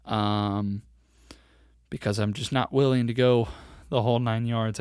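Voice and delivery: winded after sprinting; out of breath. Real, not acted. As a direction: talk short of breath from running. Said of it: "I'm a little out of breath".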